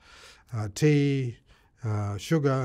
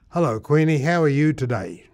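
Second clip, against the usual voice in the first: loud, careful, slowed greeting; slow speech; 3 semitones higher, 7 dB louder than usual. Retold or imitated. Man talking to his horse Queenie, slow speech. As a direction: speak slowly so the horse understands. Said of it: "I spoke slowly to Queenie".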